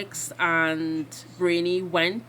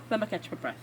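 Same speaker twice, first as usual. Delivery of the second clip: settling down; 7 dB quieter, much faster than usual. Real, not acted.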